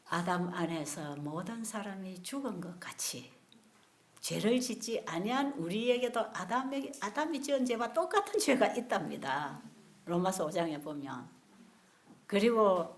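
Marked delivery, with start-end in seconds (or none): none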